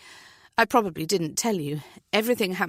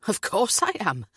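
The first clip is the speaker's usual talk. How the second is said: cheeky, grinning reply; jovial Welsh party talk; 2 semitones higher, 4 dB louder than usual. Acted. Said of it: "Steve says with a grin".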